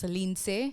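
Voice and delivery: Lindsay said the Haitian way, ending in "say"; native pronunciation. Shown as a demonstration. Guest teaches host her name, Lindsay pronounced the Haitian way. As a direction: say Lindsay as "leen-SAY". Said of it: "My name is pronounced".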